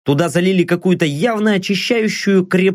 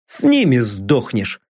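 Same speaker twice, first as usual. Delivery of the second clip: indifferent; 6 semitones lower than usual. Acted. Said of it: "равнодушно заметил я".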